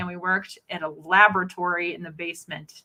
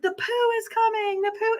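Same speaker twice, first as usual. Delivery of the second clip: high, sing-out imitation of a yell; animated mock yell. Host re-enacting bursting in on students, animated mock yell. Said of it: "in my very animated way".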